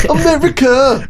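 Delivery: shout. Acted. Patriotic joke outburst.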